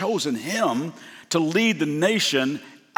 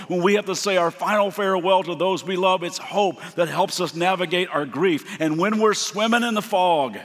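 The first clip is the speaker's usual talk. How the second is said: rising, building sermon rhythm; preaching cadence; 2 semitones higher than usual. Acted. Preacher listing hope's gifts to the congregation, building. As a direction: climb each line toward the climax.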